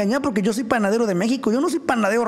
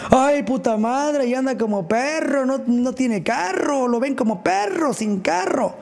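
slow, higher mock whine of an old man; 4 semitones higher than usual. Mocking the old man who jeers at him for having no car, slow higher whine. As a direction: drag it out, sneering like the old guy. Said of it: "el viejito todo el tiempo decía".

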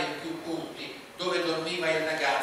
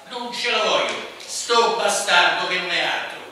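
loud, higher angry rant; angry Romuletto; 4 semitones higher, 9 dB louder than usual. A narrator's reading. Romuletto insulting the boy to his mother, loud and angry. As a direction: spit out contempt for the boy.

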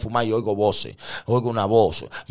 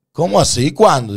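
loud, high-pitched disbelief; imitated shocked reaction; incredulous questioning; 7 semitones higher, 9 dB louder than usual. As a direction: demand it in mock astonishment. She demands explanation of conversion.

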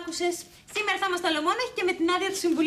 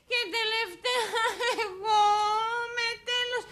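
slow, tearful tragic reading; mild lament; 4 semitones higher, slower than usual. Shown as a demonstration. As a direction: let grief creep in. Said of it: "απ' την αρχή".

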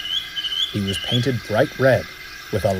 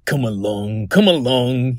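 puffing. Acted. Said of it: "he puffed".

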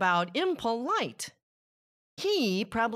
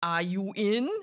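calling up at the house, higher; calling to a neighbour who won't answer; 6 semitones higher than usual. A narrator's reading. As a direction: call through the door to the pig. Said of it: "I called".

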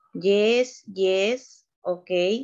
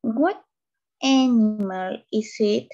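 What animal is it? drawn out, a touch louder; slow, clear teacher question; 4 dB louder, slower than usual. Shown as a demonstration. Teacher to online class, slow and clear question. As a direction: ask slowly, spelling out each word for learners.

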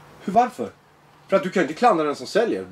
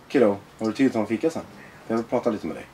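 lower, casual and low-key; calm invitation; 4 semitones lower than usual. Acted. Adult gently asking a troubled kid for coffee, calm. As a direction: bring it down, easy and friendly.

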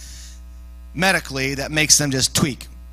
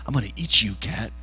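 low mock-demon growl at a cat; hammed-up menace, pitched down; demonic threat; 8 semitones lower, 4 dB quieter than usual. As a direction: drop low into a hungry demon. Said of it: "like, a demon".

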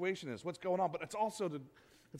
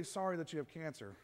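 softer, tender condolence; gentle sympathy; 2 semitones lower, 6 dB quieter than usual. Shown as a demonstration. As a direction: say it gently to someone hurting. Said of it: "It's a whole lot different".

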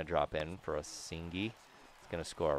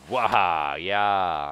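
excited whoop; 9 dB louder, much slower than usual. Real, not acted. Celebrating a hit.

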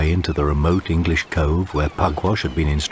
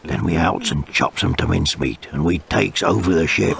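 villainous pirate; 2 semitones lower than usual. Acted. Jake explains his plan.

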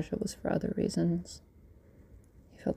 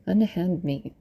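indignant shout; 5 dB louder, slower than usual. Acted. Man pinned down by police.

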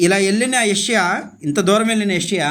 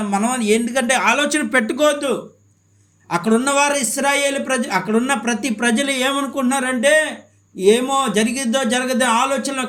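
raised, higher-pitched preacher's delivery; impassioned preaching; 7 semitones higher than usual. Acted. Preacher recounting what the people thought, impassioned. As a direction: preach it with rising urgency.

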